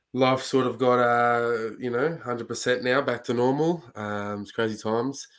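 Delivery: muffled, stuffy-nosed voice from a cold; blocked nose. Real, not acted. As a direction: talk through a blocked nose. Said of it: "my nose is very blocked and I probably sound a bit muffled".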